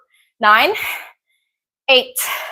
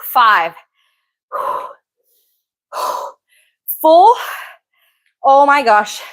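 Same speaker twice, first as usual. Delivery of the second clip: strained, legs trembling mid-rep; shaking with effort; much slower than usual. Real, not acted. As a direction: push the count out through the burn. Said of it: "My legs are shaking".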